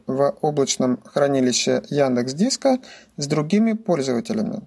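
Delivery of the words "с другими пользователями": ordinary talk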